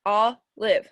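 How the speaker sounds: OLIVE split into two separate beats; syllable by syllable. Shown as a demonstration. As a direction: sound out OLIVE as "ol, ive". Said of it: "Remember how we check".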